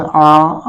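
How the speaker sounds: isolated "आ" sounded low in the mouth; back vowel demo. Shown as a demonstration. Teacher showing where the sound travels, back vowel demo. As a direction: send "आ" back and down. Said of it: "नीचे तरफ जा रहा है".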